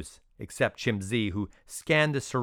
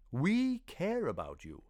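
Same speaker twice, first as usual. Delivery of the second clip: a caring mentor, coaxing and slow; gentle; 7 semitones higher than usual. Acted. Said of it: "he prompted gently".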